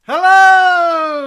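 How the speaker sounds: loud, high camp hello; sing-song drag queen greeting; campy drag queen. Acted. Drag hosts greet audience.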